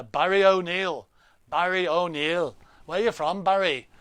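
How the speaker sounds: put-on light, slipped-in Irish accent; a hint of an Irish lilt on the winner's name; casual half-done Irish accent. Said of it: "Why am I saying an Irish accent?".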